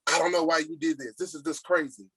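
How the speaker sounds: harsh scolding tone that makes people shut down; angry tone. Shown as a demonstration. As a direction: confront them like you're fed up. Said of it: "when you get that angry tone".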